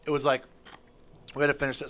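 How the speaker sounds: talking while crunching ice; words around a mouthful of ice. Real, not acted. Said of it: "Sorry, I'm chewing on ice".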